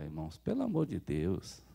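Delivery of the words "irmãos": usual speaking voice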